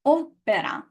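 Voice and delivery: opera with no puff of air on the p; Italian opera, unaspirated. Shown as a demonstration. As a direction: keep the p in opera dry. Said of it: "feel that".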